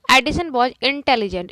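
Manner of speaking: slow, loud reading; slow dictation. Shown as a demonstration. Teacher dictating a sentence to students. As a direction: read it slowly to the class. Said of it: "teacher reads example slowly".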